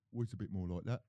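lightly voiced football manager impression; a hint of an English football manager; Roy Hodgson. Shown as a demonstration. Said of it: "That's a bit of Roy Hodgson".

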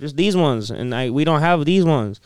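put-on a deli worker's limited English, Hispanic-accented. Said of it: "he had an accent".

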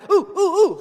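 high, loud, urgent begging to be picked; frantic classroom volunteer; Horshack. Acted. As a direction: squeal like an over-eager pupil. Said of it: "Welcome back, Cotter".

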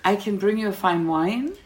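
put-on polite French accent, rising at the end. Waitress suggesting fine wine, French accent. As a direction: offer it with a French lilt. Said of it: "my French was impeccable".

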